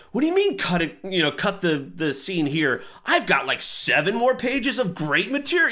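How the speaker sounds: high protesting whine; defensive teen. Retold or imitated. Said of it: "and I'm like".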